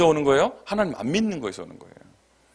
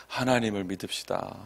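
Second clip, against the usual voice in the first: gentle exhortation; 5 semitones lower, 8 dB quieter than usual. Shown as a demonstration. Models line for neighbours to repeat.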